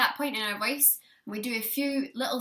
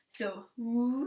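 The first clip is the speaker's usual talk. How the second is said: siren. Shown as a demonstration. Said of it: "is a siren sound".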